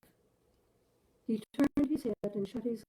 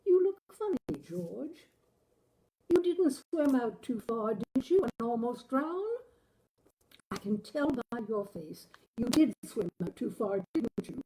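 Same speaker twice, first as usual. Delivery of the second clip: higher, louder voice of an anxious wife; higher, louder worried wife, slowing on the question; 5 semitones higher, 8 dB louder than usual. Acted. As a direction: press him like a wife who fears he nearly drowned.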